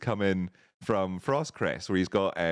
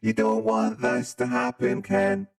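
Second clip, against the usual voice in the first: menacing modded voice; 12 semitones higher, 5 dB louder, slower than usual. Acted. Voice mod villain taunting Ken.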